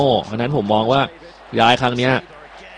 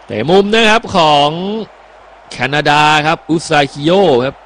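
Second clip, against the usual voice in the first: higher, louder announcing the corner; excited corner call; 4 semitones higher, 4 dB louder than usual. Acted. Co-host announcing Canada's corner kick, excited and higher. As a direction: snap the corner call out to viewers.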